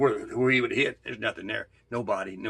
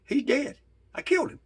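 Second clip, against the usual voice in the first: panicked realization; 12 semitones higher than usual. Retold or imitated. Realizing he killed his friend.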